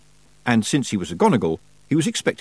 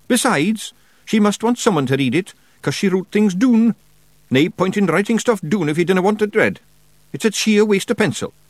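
high, loud broad Scottish wee man; a cocky little pixie laying down the law; Rob Anybody Feegle; 11 semitones higher, 4 dB louder than usual. A narrator's reading. Rob argues.

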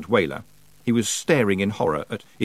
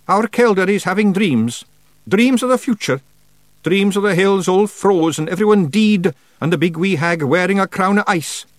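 high, loud Feegle voice; grave Scots Feegle; 11 semitones higher, 6 dB louder than usual. Acted. Feegle tells witch of prophecy, urgent. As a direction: recount a dire dream, high and urgent.

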